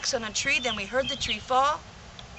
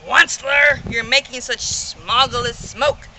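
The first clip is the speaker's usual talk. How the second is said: croaking complaint; 5 dB louder than usual. Acted. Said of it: "he cried with a cruffulous croak".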